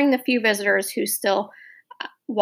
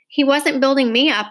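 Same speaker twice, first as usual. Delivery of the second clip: louder, higher sharp comeback; angry retort; 4 semitones higher, 5 dB louder than usual. Acted. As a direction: snap back defensively.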